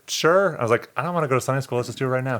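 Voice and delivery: high, eager and impatient; eager to talk now. Retold or imitated. Young man pressing his friend to talk now, eager and high. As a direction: jump in, keen to get it over with.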